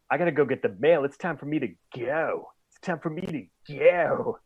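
"go" said a new way each time; varied go. Retold or imitated. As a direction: stretch and vary "go" in each sentence. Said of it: "You say "go" differently".

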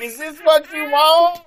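high loud seductive come-on; sultry tease. Pretend. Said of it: "And be like".

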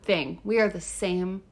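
low, soft mock sincerity; falsely earnest, quietly delivered; sarcastic. Real, not acted. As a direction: drop the voice into dry sarcasm. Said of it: "can you tell how sarcastic I'm being".

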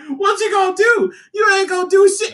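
high, shouted mock taunt; taunting Joker. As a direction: goad him loudly, daring him. Acts Joker taunting Superman.

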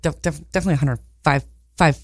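lightly voiced, quick stuttered insistence; low-key, repetitive muttered certainty; Rain Man. Co-host riffing on the numbers joke, light Rain Man impression. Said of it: "I don't know, Rain Man".

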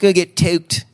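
put-on high Baltimore accent, go drawn out. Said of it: "I've been working on my Baltimore accent".

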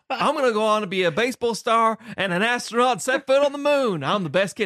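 high, loud, laughing mock father; laughing as he quotes the father's over-the-top grief; hammed-up grieving father. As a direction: ham up the father's overwrought grief, laughing through it. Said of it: "doing the whole literal phrase of".

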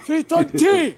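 high, loud, aggressive Scottish call; aggressive Scottish accent. Shown as a demonstration. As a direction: belt it out in a rough Scottish accent. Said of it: "if you sound aggressive".

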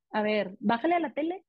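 a bossy child's order, lightly imitated; mild imitation of a spoiled child commanding; demanding kid. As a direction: toss it off like a kid used to giving orders. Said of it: "Como demandando".

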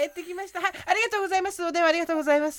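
high, bright phone-line thanks; customer service voice. Pretend. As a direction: thank the callers cheerfully. Mock call-in during shopping show.

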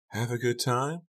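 chilly, pointed mother; cold question. A narrator's reading. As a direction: ask it coldly, pitch lifted. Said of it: "Becca's mother asked coldly".

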